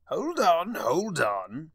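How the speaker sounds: high, loud cry of hold on; startled high-pitched outburst; sudden cry. A narrator's reading. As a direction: cut in sharply with a loud call. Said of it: "Discord cried suddenly".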